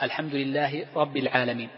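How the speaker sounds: "رب" said with a single, undoubled b; dropped shadda. Shown as a demonstration. Teacher imitates a faulty Fatiha reader, "رب" without its shadda. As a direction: recite it wrongly, no doubling on the b of "رب". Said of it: "صلاتك غير صحيحة لأنك تركت ماذا؟ شدة".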